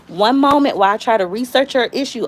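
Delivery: lightly put-on customer service politeness; mildly acted professional sympathy; call-center agent voice. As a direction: apologize like a polite phone agent. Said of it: "at the call center job".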